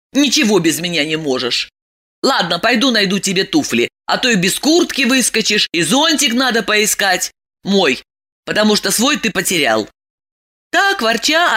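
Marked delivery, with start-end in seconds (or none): 0.1-9.9 grumbling. Acted. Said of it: "проворчала".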